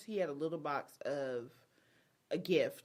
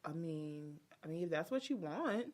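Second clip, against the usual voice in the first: softer resigned mumble; lightly voiced deflated groom; 6 dB quieter than usual. Groom answering his crying bride, mild resignation. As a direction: shrug it off quietly. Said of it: "He's like".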